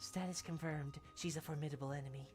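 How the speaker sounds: low, flat robotic deadpan; a touch of a stoic girl. Acted. Deadpan NPC voiced low.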